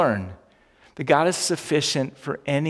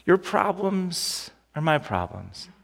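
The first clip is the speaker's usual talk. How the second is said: slow tender reassurance; 5 dB quieter, slower than usual. Acted. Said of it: "God is essentially saying here".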